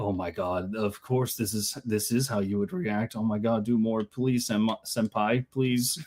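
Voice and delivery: low, soft mock fan pleading; hushed fan. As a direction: plead under your breath like a besotted fan. Acts out adoring fans watching.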